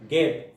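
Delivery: "गेट" said alone as the closing syllable; syllable demonstration. Shown as a demonstration. Teacher counting the syllables of forget, isolated second syllable "गेट". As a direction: break off "गेट" as one separate syllable. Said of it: "तोड़ के देखो".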